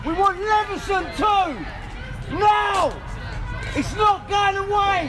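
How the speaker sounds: yelling across the room. Real, not acted. Protester shouting demands.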